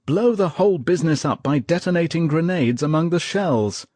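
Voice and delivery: excited. A narrator's reading. Private telling his friends his plan, excited. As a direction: rush it out with excitement. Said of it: "excitedly outlined his plan".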